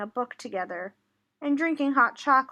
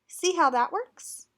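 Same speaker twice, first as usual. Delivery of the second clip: parrot echo; 4 semitones higher than usual. Acted. Parrot repeats mouse line.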